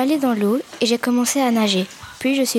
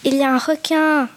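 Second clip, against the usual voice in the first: panicked call to mom; child's cry for mom; 5 semitones higher than usual. Acted. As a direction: shout for your mother from the water. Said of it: "j'ai crié".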